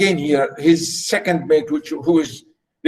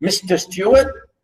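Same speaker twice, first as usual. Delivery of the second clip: mock-polite address, rising at the end; lightly mocking, lift the last word; sarcastic; 3 semitones higher than usual. Keeney mocking his servant, ironical and sarcastic. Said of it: "being ironical and sarcastic here, saying to him".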